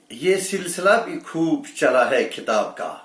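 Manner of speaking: measured Urdu verse delivery; mushaira-style recital; poetry recitation. Acted. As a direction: recite it as a ghazal line. Recites a couplet line.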